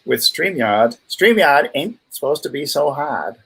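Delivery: put-on slipping into a New England accent. Host excusing a tech hiccup with StreamYard, New England accent. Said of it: "I still have my New England accent".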